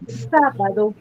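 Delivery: SÁ of sábado stressed. Shown as a demonstration. Teacher asks where the word carries most force, stress on SÁ in sábado. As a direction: lean on the first syllable of sábado. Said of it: "dónde tiene la mayor fuerza de voz".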